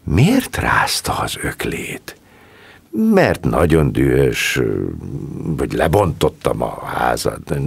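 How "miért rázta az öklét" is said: 1 trembling. A narrator's reading. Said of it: "Louise reszketett".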